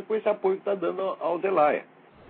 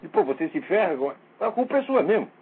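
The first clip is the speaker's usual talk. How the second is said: exasperated outburst; 3 semitones higher than usual. Retold or imitated. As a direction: vent the frustration. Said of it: "Eu digo". (explosão exasperada)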